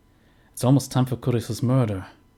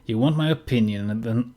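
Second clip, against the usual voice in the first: new father voice. Acted. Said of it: "Ich bin mit der Stimme jetzt inzwischen in eine Richtung gegangen".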